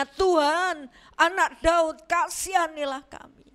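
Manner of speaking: retold plea, called out a little harder. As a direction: call out insistently for mercy. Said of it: "makin keras berseru".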